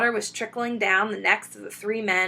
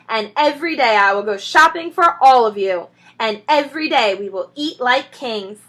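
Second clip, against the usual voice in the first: planning speech; 3 semitones higher, 5 dB louder than usual. Acted. Mister Fox describing the village, proudly. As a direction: paint the picture proudly.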